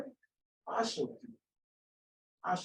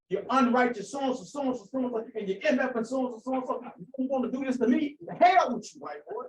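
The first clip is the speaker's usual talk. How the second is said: angry cursing; 5 semitones higher than usual. Retold or imitated. Jesus cursing out the men who want to kill him, furious. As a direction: curse them out, building to the last line.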